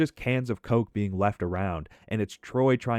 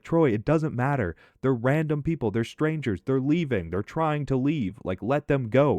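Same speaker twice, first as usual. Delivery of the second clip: pleading; 3 semitones higher than usual. Retold or imitated. Neighbor pleads with raging man.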